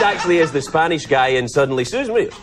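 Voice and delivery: ordinary talk, nothing marked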